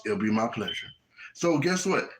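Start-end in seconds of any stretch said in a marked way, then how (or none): 0.0-0.9 low, even courteous reply; unruffled employee. Acted. Chick-fil-A employee to demanding customer, calm and obliging. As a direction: answer evenly, dropping the pitch.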